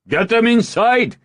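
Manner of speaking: high, loud command; shout. Acted. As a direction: bellow the order across the field. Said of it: "he shouted to her".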